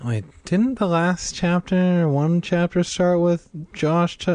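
confused aside. Real, not acted. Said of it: "oh, fuck it".

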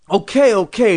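loud, placating cry; shouting. A narrator's reading. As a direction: shout over a child's wailing. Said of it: "shouting to be heard".

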